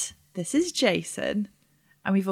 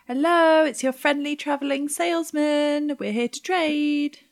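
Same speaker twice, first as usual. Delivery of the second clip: salesman greeting; 5 semitones higher than usual. Acted. Player voices salesman greeting.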